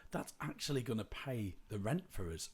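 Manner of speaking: high, amazed and delighted; amazed disbelief. Retold or imitated. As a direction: gasp out the surprise. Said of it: "was like".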